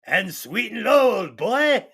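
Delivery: hammed-up British old boy; British accent. Holmes finishes his coffee order, bad British accent. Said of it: "worst British accent I've ever heard".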